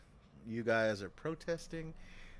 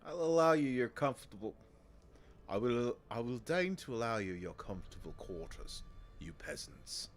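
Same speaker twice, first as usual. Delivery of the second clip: menacing city leader; 4 semitones lower than usual. Acted. Leader to striking workers, low and menacing.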